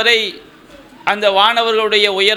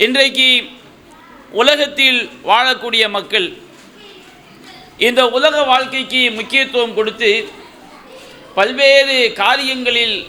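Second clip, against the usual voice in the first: preaching. Acted. Rising exhortation to audience.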